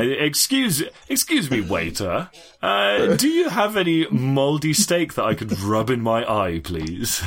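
posh restaurant customer, lifted pitch; hammed-up posh diner order. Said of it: "in my finest posh diner voice".

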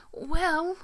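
put-on high, laughing old lady quote. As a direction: giggle through a sweet old lady. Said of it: "this ninety-three-year-old lady going".

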